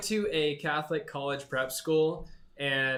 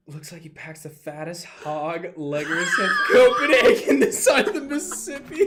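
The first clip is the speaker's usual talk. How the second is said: hillbilly voice; 5 dB louder than usual. Pretend. Roasting in put-on voice.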